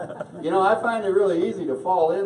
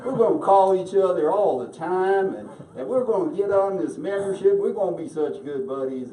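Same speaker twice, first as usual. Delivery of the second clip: imitating Sugar; 2 semitones higher than usual. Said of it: "Sugar gets up in front of us and says".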